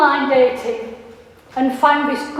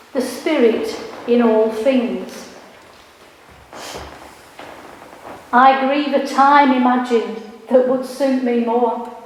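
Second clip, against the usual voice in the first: poem recital. Acted. Poet reads her poem aloud.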